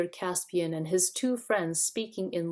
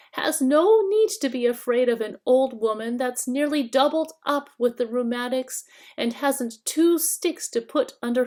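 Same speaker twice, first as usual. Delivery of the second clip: put-on high, whining old-woman voice, louder; fawning old witch, wheedling and sly; thin whining hag; 6 semitones higher, 5 dB louder than usual. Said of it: "a thin, whining voice".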